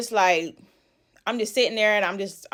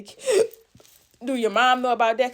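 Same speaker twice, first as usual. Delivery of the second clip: shocked gasp; 2 semitones higher than usual. Retold or imitated. Sudden realisation in story.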